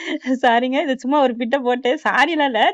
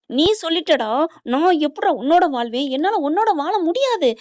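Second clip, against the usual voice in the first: mock yell with the pitch climbing; retold shouting; 4 semitones higher than usual. Madhu refusing to live with him, retold as high-pitched yelling. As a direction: act out her shouted refusal, rising higher. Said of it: "அப்படின்னு கத்துறாங்க".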